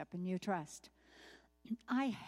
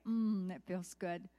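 savoring; slower than usual. Pretend. Savoring chips.

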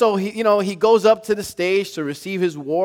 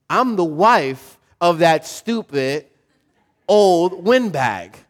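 pointed retort; 3 semitones higher, 5 dB louder, slower than usual. Retold or imitated. Wife reveals she's the general's.

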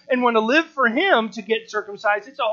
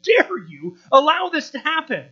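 mildly indignant, louder and higher; a preacher's fired-up rebuke, acted out; 4 semitones higher, 4 dB louder than usual. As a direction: scold them in mock outrage. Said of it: "he is fired up".

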